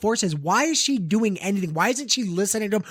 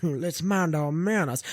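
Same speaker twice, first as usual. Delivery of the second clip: old-fashioned mock propriety; slower than usual. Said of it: "some fucking fourteenth century".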